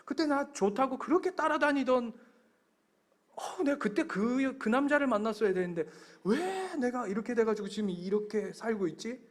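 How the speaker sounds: high-pitched comic lament of regret; half-joking, wistful "why, God" grumble; acted mild grumbling. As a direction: imitate someone moaning about past choices. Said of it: "이렇게 원망은 아니더라도".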